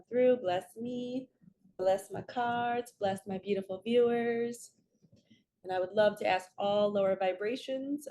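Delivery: earnest invocation to the archangels, steady and devout; spiritual prayer. Real, not acted. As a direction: call on the angels as if opening a sacred space. Opens sacred space with prayer.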